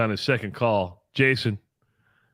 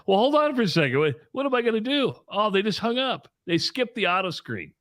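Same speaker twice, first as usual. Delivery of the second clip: flustered radio host; 7 semitones higher than usual. Retold or imitated. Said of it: "Justin Miller on the morning rush, like".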